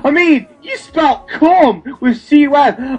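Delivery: high forced laugh, hammed up; mock laughter. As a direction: fake a big laugh to sneer at the joke. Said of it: "I'm laughing".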